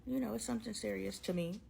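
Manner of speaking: a hint of a frantic, overreacting girlfriend; mock crazy chick. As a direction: lightly voice the clingy partner. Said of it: "I'm not that crazy chick who's like".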